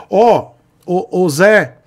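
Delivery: lightly voiced old-timer calling out; a hint of an old man hailing Zé; old-guy talk. Vlogger jokes that he talks like an old man. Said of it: "eu tô falando assim porque eu sou velho".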